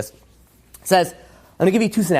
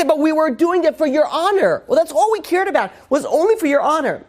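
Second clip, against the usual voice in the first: high, pleading voice of frightened subjects; mock pleading, raised high; begging townspeople; 10 semitones higher than usual. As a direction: plead innocence to the king, pitched well up. People begging the king.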